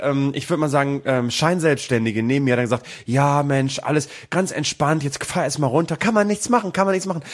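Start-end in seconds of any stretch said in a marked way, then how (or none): 3.1-7.2 retold flippant, breezy reassurance; mildly mock a glib fellow passenger; flapsig. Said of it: "so eine flapsige".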